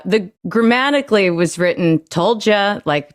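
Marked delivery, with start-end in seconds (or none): 2.1-2.8 "Told ya" as a closed statement, higher start falling to a stop; statement, full stop. Shown as a demonstration. Explaining the script line to her, "Told ya" ending like a period. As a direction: say "Told ya" as its own finished sentence.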